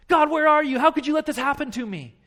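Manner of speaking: anguished cry to God. Pretend. Pastor voicing a hurting believer's loud cry to God. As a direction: cry out as if abandoned.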